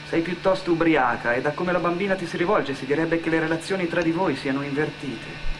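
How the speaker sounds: ordinary delivery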